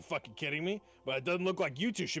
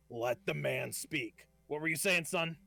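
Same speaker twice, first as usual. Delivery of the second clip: imposing smith; slower than usual. Acted. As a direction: let each word land heavily. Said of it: "He goes".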